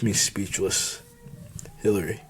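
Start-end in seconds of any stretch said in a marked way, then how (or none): 1.8-2.2 a hint of a grumbled warning. The boss grumbles at the bartender, quietly. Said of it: "Morgan grumbled".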